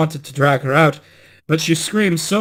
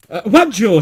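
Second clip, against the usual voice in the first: caught off guard; 6 semitones higher, 5 dB louder than usual. Acted. False bride caught out.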